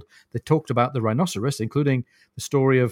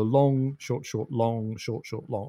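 "long" drawn out, each "short, short" quicker; dactylic rhythm; 5 dB quieter, slower than usual. Shown as a demonstration. Explaining a dactyl to a co-host, dactylic rhythm. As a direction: chant "long, short, short" as a repeating metrical foot. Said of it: "like that".

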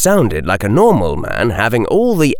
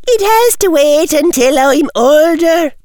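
put-on prissy young girl; 5 dB louder than usual. A narrator's reading. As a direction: whine like a spoiled schoolgirl. Girl student protesting.

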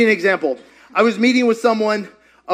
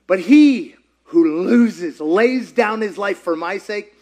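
slow scripture reading; 2 semitones lower, slower than usual. Acted. Quoting scripture slowly.

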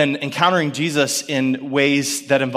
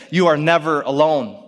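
reassuring God's voice; slower than usual. Retold or imitated. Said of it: "God's thoughts sound something more like this".

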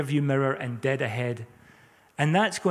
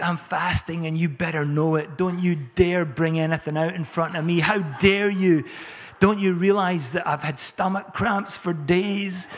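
hammed-up affronted martyr, building in force; mock outrage, stretched on the climax; mock indignation; 2 semitones higher than usual. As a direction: scold them as the self-important sufferer. Acting a self-righteous, indignant faster.

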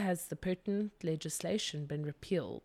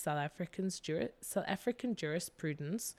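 mouth not working; 3 dB quieter than usual. Real, not acted. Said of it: "my mouth is just blah today".

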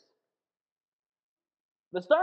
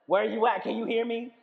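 1 mock panic; 5 dB louder than usual. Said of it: "Some are like".

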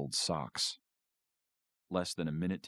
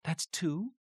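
fairly surprised. A narrator's reading. Mom counts Paul's second vote, mild surprise. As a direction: caught off guard reading it. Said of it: "sounded fairly surprised".

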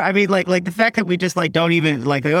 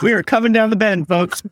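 parade announcer; 5 semitones higher than usual. Retold or imitated. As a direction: call it like a parade broadcaster. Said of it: "I was just like".

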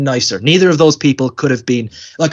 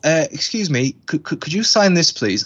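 hesitant, stammered polite request; mock timid kid, stumbling on the first words; imitating nervous child; 3 semitones higher than usual. Awed kid asks an actor for an autograph, nervously.

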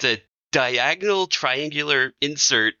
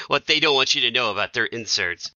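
clickbait video narrator. Pretend. Clickbait parody continued.

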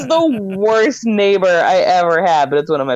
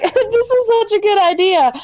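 laughing; 11 semitones higher than usual. Retold or imitated. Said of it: "she's like".

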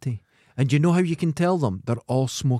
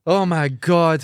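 slow, louder, drawn-out groan of disbelief; drawn-out exasperation; 5 semitones higher, 6 dB louder, much slower than usual. Real, not acted. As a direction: stretch it out in exasperation. Exasperated end of chat.

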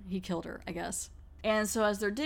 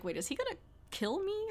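high, startled mock panic; alarmed question; 10 semitones higher, 6 dB quieter than usual. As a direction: pitch it up in sudden alarm. Cynthia panics about Emma.

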